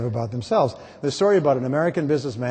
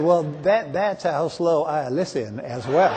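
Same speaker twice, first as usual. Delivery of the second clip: slow Alabama drawl; slower than usual. Retold or imitated. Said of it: "He said".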